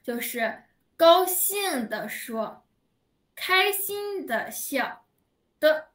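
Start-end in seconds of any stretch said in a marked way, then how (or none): 0.9-5.1 happy demo. Shown as a demonstration. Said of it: "什么叫的呢？".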